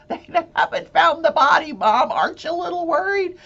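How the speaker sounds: mock daughter confronting her mother. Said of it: "daughter quoted to her mother".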